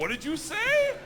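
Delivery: high, loud acted gangster's question; incredulous outcry. Gangster asks the newcomer what he said, incredulous high shout. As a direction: cry it out in mock disbelief. Laughing gangster demands a repeat.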